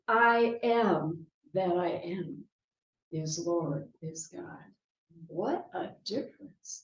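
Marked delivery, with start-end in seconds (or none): 0.1-4.6 "I am that I am" said slowly, then a pause before "is Lord"; slow, pauses between phrases. Shown as a demonstration. Preacher reframing the name of God, slow and paused. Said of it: "take that whole same sentence as".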